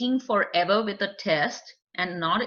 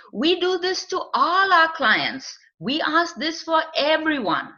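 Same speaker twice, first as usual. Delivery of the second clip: reassuring; 6 semitones higher, 3 dB louder than usual. Shown as a demonstration. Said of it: "Or you could say".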